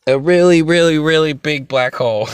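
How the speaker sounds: laughing. Real, not acted. Laughing at his own huge claim.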